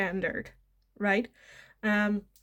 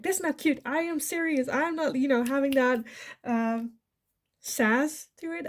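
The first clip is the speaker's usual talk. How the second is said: defensive protest; 4 semitones higher than usual. Retold or imitated. Quote of the partner's defensive retort.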